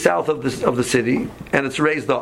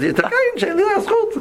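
much higher, fast, laughing through it; laughing retort; much faster than usual. Retold or imitated. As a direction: toss it back at the driver with a laugh. Teasing retort to the driver.

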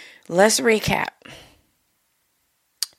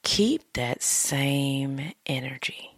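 whispering; 2 semitones lower, 5 dB quieter, slower than usual. Shown as a demonstration. Whispered slowly.

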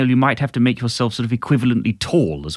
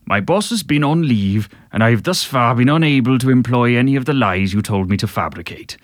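A singer speaking. Retold or imitated. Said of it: "I'll do it as a singer speaking".

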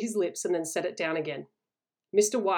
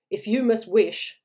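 louder and slow, pressing the warning; urgent demand; 3 semitones higher, 7 dB louder, slower than usual. A narrator's reading. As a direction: halt him with a loud, slow warning. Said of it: "he demanded".

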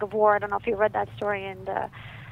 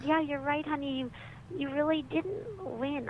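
soft, higher-pitched gentle admission; gentled tone; 5 semitones higher, 4 dB quieter than usual. Retold or imitated. Mom admits the truth to her little boy, gently. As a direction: concede tenderly to a small child. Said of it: "she kind of gentled her tone".

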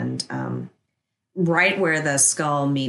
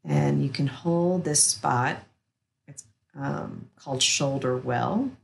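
soothing massage murmur. Acted. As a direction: guide them gently into rest, unhurried. Guides an acupressure relaxation.

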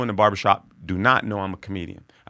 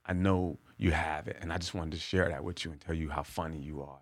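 soft sincere thanks; 3 semitones lower, 5 dB quieter than usual. Retold or imitated. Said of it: "And he goes".

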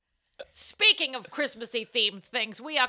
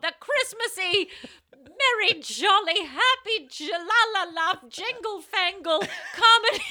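higher, louder, slow jolly host; festive announcer; 6 semitones higher, 5 dB louder, slower than usual. Acted. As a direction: ham it up like a Christmas showman. Festive hammy show intro.

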